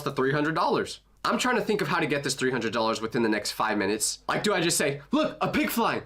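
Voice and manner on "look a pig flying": higher-pitched mock excited call; badly faked astonishment to divert someone; fake distraction. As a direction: pretend to spot something amazing. Imagined trick to distract clerk.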